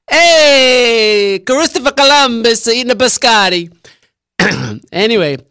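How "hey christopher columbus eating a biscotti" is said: excited announcer. Acted. Mock announcing Columbus eating.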